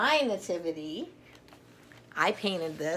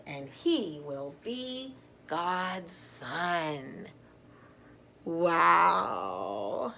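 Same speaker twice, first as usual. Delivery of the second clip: bright, expressive picture-book read-aloud; reading to children; slower than usual. Acted. Grandmother reading an alphabet Christmas book to children, storytelling voice. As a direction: read it like a bedtime book for little ones.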